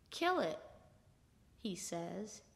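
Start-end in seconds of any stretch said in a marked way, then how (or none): 0.1-0.6 grim quiet request. Acted. Grim request to kill the cat.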